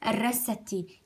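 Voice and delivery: drawn-out syllable by syllable; slow spelling drill. Shown as a demonstration. Teacher drawing out the word slowly for children. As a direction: stretch each sound slowly for the pupils. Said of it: "يلا خلينا نتهجاها".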